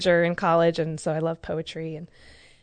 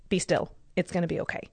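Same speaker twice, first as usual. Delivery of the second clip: quiet, understated reassurance, retold; a hushed thought imitated in a calm voice; calm inner voice; 5 dB quieter than usual. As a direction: settle gently, dropping softer at the end. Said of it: "I, I immediately calmed down".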